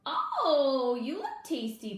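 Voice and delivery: a light kitten purr, rising high on the oh. A narrator's reading. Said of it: "purred the kitten".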